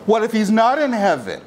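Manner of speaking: mildly sarcastic retold question. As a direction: needle them lightly with a mock-innocent question. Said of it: "he said sarcastically".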